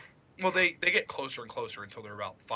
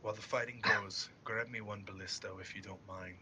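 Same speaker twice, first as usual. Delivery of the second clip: low, softened murmur, trailing quieter; whispered request; 3 semitones lower, 6 dB quieter than usual. Acted. Captain to the Minotaur during the fight, hushed aside. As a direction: murmur a discreet request, dropping the volume. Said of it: "he whispers to the Minotaur".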